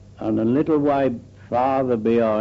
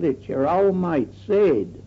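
retold shout across; 5 semitones higher than usual. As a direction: imitate a mate calling back. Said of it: "Shouted back".

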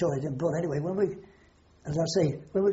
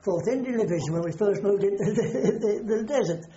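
laughing while talking; 3 semitones higher, 5 dB louder than usual. Real, not acted. Laughs while recalling the desert.

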